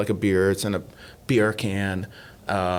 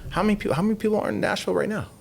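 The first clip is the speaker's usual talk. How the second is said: excited; 11 semitones higher, much faster than usual. Real, not acted. Excited rhetorical question.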